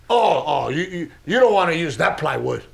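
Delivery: lightly mimicked fussy father-in-law; hint of a nitpicking dad, tripping over the start; Daddy Raymond. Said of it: "My dad does not talk like that".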